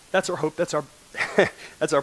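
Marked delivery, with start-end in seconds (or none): 1.3-2.0 laughing. Real, not acted. Laughs at own choked-up repeat.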